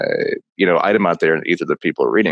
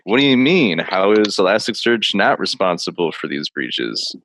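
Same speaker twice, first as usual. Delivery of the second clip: slow, mock-outraged question; sarcastic; slower than usual. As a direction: fake indignation, drawn out. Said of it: "But sarcastically".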